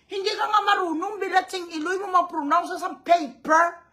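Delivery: snapping fast and high at a rival; angry outburst. Real, not acted. Ranting at her rival about transparency, sharp and angry. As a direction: fire it off, fed up and mocking.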